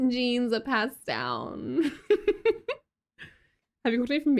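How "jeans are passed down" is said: put-on tag-less Cali girl. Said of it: "A vocal fry?".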